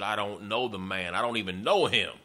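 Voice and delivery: Peter swearing he never knew Jesus, building anger; swearing denial. Retold or imitated. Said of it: "Peter began to cuss and swear".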